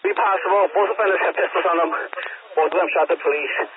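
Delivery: crackly police radio transmission; talking through a handheld radio; over a radio. Real, not acted. Officer reporting shots over radio.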